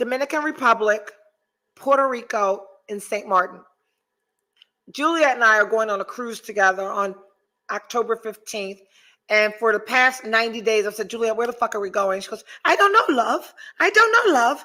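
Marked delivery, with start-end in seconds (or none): 12.6-14.6 put-on clumsy English accent, pitched up. Retelling your cruise companion's answer to your question, in a butchered impression of Juliet's English accent. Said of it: "Juliet has a beautiful English accent, and I'm fucking butchering it".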